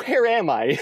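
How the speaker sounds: high cute little dog voice; voicing the dog. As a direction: squeak it out like a lost puppy. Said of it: "with its eyes going".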